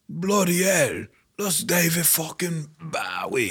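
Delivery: put-on high, hardcore English accent, with a slow stretched "David fucking Bowie"; hammed-up English rocker exclaiming in shock. A rock singer spotting another rock star, in a high, exaggerated English accent. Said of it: "I hate doing accents".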